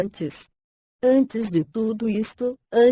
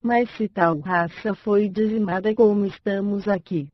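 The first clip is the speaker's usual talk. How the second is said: synthetic computer reading voice, bright and even; chipper text to speech voice. Real, not acted. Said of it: "Voz sintetizada, I B M Voice, voz Raquel". (voz sintetizada animada)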